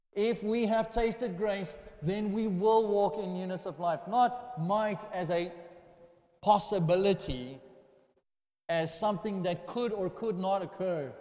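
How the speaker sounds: measured, insistent pulpit delivery; deliberate sermon emphasis; emphatic preaching. Real, not acted. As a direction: weigh out each key word to make the distinction.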